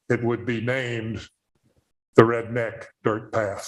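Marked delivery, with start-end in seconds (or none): 2.1-3.7 laughing. Real, not acted. Punchline of a pun joke.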